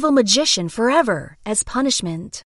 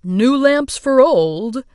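yelling; 4 dB louder, slower than usual. Acted. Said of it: "went to the palace yelling".

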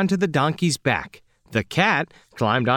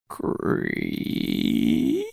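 creaky door sound; 5 dB quieter than usual. A narrator's reading. Sound effect in narration.

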